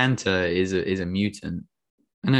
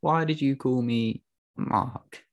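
mock British accent; 5 semitones higher, 4 dB quieter than usual. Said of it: "and he says".

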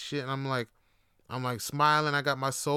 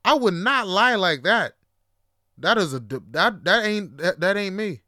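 louder, offended insistence; indignant denial; 3 semitones higher, 5 dB louder than usual. Real, not acted. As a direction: protest your honor loudly. Insulted denial to audience.

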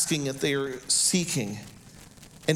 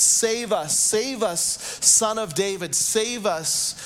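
higher mock crowd chant; a touch of shouting, pitched up; retold shouting; 4 semitones higher, slower than usual. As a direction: repeat it as an imitated crowd plea, mildly raised. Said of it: "They kept shouting".

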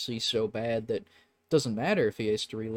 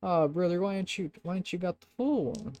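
put-on half-hearted country accent, pitched up; 7 semitones higher than usual. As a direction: put on a light country twang. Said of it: "Oka has a country accent".

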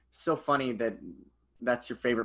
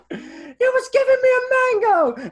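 high wailing cry; 8 dB louder than usual. Acted. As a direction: wail it like sobbing. Acting out friend's grief.

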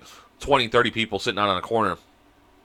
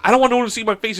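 mock panicked reply; 10 semitones higher, faster than usual. Storyteller refusing to come back inside, mildly panicked. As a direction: protest in a mild retold panic.

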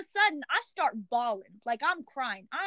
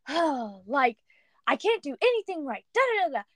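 mock whiny complaint. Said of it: "I've been super whiny".

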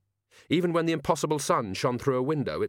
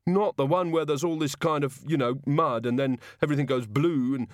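higher, dismayed character voice; frightened guard; 4 semitones higher than usual. Acted. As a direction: ramble through a dreaded nightmare.

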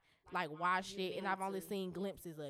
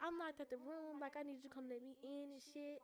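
higher, softer imitation of a flustered roommate; mock panic; 6 semitones higher, 11 dB quieter than usual. Roommate calling with a made-up lockout lie, mock panic. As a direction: lightly act out a fake lockout emergency. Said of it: "panic, da da da da".

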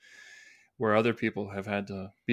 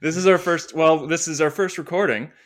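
laughing through the words, slowly; giggling, can't keep a straight face; breaking character giggling; 7 semitones higher, 8 dB louder, slower than usual. Real, not acted. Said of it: "I can't do it with a straight face".

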